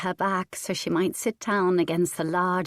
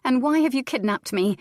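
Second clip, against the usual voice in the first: demanding; 7 semitones higher, 5 dB louder than usual. A narrator's reading. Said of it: "she demanded of him".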